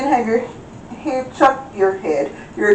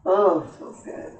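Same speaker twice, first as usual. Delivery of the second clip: relieved sigh; 6 dB quieter than usual. Real, not acted. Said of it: "sigh out".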